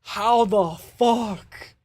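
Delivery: very slow, stretched stunned question; slow baffled recalled reaction; drawn-out disbelief. Retold or imitated. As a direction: drag it out, still amazed at the call. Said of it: "I was like".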